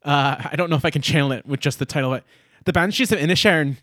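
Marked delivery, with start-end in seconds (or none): 2.6-3.8 put-on Irish accent. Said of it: "I'm gonna try to do this in my Irish accent".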